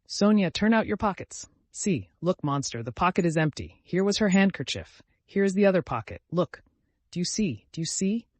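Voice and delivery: high, loud and urgent; frantic. Acted. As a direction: prove it to the whole room. Frantic turning out pockets.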